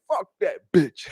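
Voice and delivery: slow cuss broken by laughter; laughing mock Trump. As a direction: spit it out slowly while laughing. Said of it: "And Trump was like".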